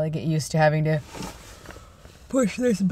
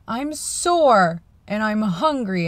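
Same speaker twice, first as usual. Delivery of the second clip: high, slow, pained whine; whining in pain; 5 semitones higher, much slower than usual. Retold or imitated. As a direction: drag it out sorely. Wife complaining of pain.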